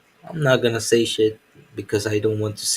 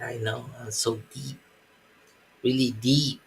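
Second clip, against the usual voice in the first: mock self-important; 5 dB quieter than usual. Self-mocking aside.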